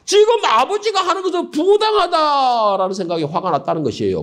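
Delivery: usual speaking voice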